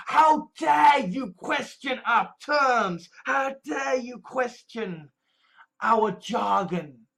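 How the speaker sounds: slow, drawn-out indignation; mock outrage. Activist challenged on movement jargon, mock outrage. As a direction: stretch the words as if affronted.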